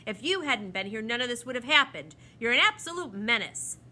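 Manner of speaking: loud, indignant telling-off, rising in heat; annoyed scolding. A narrator's reading. The proc blames the children for the accident, annoyed scolding. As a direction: lay the blame on them loudly. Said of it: "foot in annoyance".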